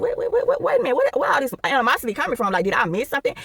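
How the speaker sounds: high, startled wait wait; baffled. Retold or imitated. To angry coworker, caught off guard and confused. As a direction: sound thrown off and lost.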